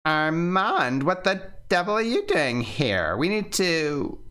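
high, startled outburst; startled woman calling his name; surprised woman. Acted. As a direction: catch him off guard.

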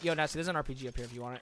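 soft, fast and meek; timid murmur. Retold or imitated. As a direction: mumble it shyly. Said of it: "if you're submissive".

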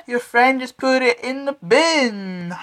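high, still-laughing words. Real, not acted. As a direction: talk through the giggles. Still laughing over the prank.

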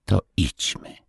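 plain, gentle resolve; simple. A narrator's reading. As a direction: say it simply, no fuss. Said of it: "rzecze z prostotą".

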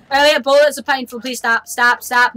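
yelped complaint; loud pleading. Real, not acted. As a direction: beg the friend to stop. Being shot by friend.

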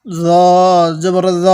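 long rounded "জ" with a soft z. Shown as a demonstration. Teacher shows learners soft zo in "জ জবর জ". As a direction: say "জ জবর জ" slowly, each letter "জ" a soft zo. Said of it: "এই জটা উচ্চারণের সময় একটু নরম করে পড়ব".

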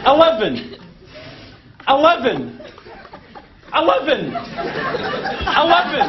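slowing down. Acted. Repeating the floor slowly for the lift. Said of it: "keep saying it until I understand".

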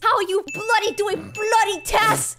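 mock-British scolding; playful fake British; attempted British accent. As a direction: lay on a hammy British accent. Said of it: "British accent, go".

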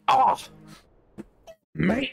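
high, slow mock Australian accent. Streamer imitates Bubba in a mock Australian accent. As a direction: put on an Aussie drawl to imitate Bubba. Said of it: "He doesn't sound Australian".

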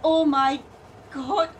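loud disgusted yelp; disgusted shout. Acted. Disgusted outcry.

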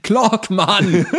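laughing, loud call of the name; laughing shout. Acted. Friends joking about a baby's name, laughing shout. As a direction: burst out the name through laughter.

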